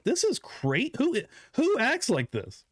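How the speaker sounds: retold amazement, pitch leaping up; mock shocked. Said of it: "I was shocked".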